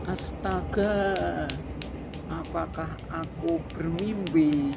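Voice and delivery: slow loud amazed astaga; astonished gasp. Acted. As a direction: play the stunned librarian. Librarian character shocked.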